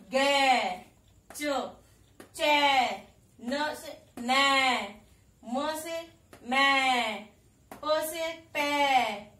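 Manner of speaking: each ऐ syllable called loud, some stretched slow; reciting the sounds. Shown as a demonstration. Teacher reciting the ऐ chart to children, loud. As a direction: run the chart: ग, गै, च, चै, each one clear. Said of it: "तो वो क्या बन गया?".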